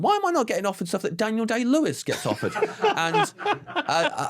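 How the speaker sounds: high, mock-indignant whine breaking into laughter; self-mocking complaint dissolving into real laughter; laughing at himself. Real, not acted. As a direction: send up your own vanity till you crack up. Mocking own inflated ambitions, laughing.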